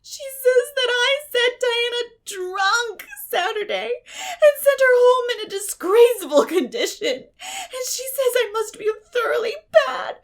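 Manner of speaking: high, loud, slow crying; sobbing girl. A narrator's reading. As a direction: weep over your lost friend. Anne sobs out her disgrace.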